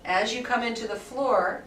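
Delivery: calm guided movement voice with unhurried pauses; guided relaxation. Acted. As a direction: lead the class gently through the movement. Guides a guided body-awareness session.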